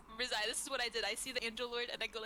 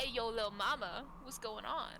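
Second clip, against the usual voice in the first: flirty street greeting. Acted. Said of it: "that's how I say it".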